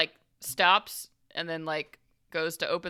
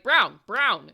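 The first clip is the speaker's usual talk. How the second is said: loud, raised call for a subordinate; summoning a rookie; 4 semitones higher, 9 dB louder than usual. Acted. Police boss calls a rookie over, loud summons.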